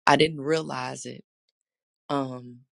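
hoarse, scratchy throat; raspy voice. Real, not acted. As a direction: speak through a rough voice. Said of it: "voice being a little raspy".

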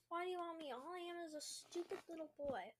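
understated whimpering complaint; mild whimper. Acted. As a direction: plead with a touch of whimper. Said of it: "whimpered Hunter".

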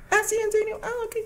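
very high, soft little voice; consoled kid. Pretend. Little boy accepts mom's comfort, very high soft kid voice. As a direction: answer small like a calmed child.

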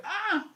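a soft, high mock scream of a woman; imitated scream. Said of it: "gritaba una morra así como de". (grito de mujer imitado, agudo y suave)

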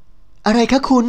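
high, very slow dazed asking; a lightly voiced startled young woman; bewildered question. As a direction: ask it like you've just been shoved and can't understand why. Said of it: "ถามด้วยความงุนงง".

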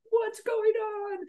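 high, drawn-out singsong question; mock-casual high squeal; awkward greeting. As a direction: stretch it out in a high put-on voice. Acts out awkward surprised greeting.

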